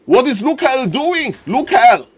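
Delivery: high, alarmed player voice; mock panicked cry for Lukael; voicing the Blade Master. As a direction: play the confused Blade Master calling out. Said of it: "this Blade Master is like".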